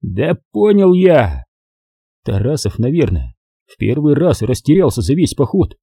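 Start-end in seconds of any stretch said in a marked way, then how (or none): 0.0-1.4 flustered snap. Acted. Flustered colonel snaps.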